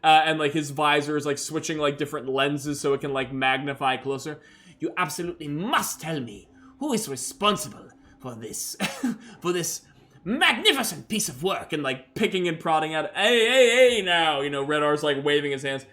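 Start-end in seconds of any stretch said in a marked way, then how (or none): 4.8-11.7 excited doctor voice. Acted. 13.1-14.4 warning call. Acted. Red R's waves doctor off.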